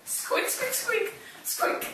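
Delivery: high breathy mouse squeaks; an angry little mouse squeaking; squeaky mouse. Pretend.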